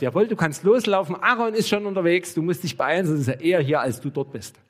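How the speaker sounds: high, loud, eager go-ahead; eager urging. Acted. God eagerly sending Moses off, urgent and excited. Acts out God's eager hypothetical reply.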